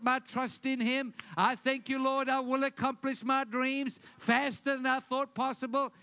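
bold declaration. Shown as a demonstration. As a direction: declare it over your day with fire. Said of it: "you should declare".

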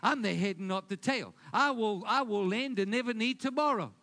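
firm, loud confession of faith; bold declaration. Shown as a demonstration. Preacher modelling a daily declaration to the congregation, bold and loud. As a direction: declare it like you mean it. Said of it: "You gotta declare every day".

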